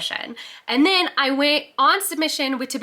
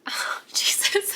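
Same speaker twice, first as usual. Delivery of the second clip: tearful whisper; slower than usual. Real, not acted. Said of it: "I'm getting emotional".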